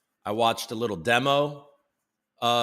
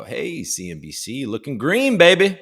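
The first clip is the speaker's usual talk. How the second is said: mock market hype; 3 semitones higher, 6 dB louder than usual. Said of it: "we're gonna go".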